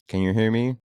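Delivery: scam caller voice. Retold or imitated. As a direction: ham up the scammer's question. Acting out scam call again.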